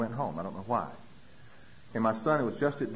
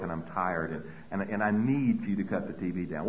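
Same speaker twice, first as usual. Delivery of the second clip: lower-pitched, earnest explaining of feelings; calm, measured; 6 semitones lower than usual. Retold or imitated. Mother explaining her feelings to her son, calm and measured. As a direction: explain it calmly and carefully, keeping it low.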